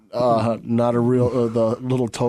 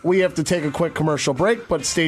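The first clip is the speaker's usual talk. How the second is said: tag; 5 semitones higher than usual. Real, not acted. Radio host signs off to commercial break.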